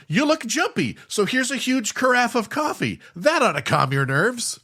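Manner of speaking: high, chirpy landlady voice pushing coffee; a bright, overly helpful hostess; mock landlady. Landlady offering a nervous tenant coffee, high and chirpy. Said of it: "she's like".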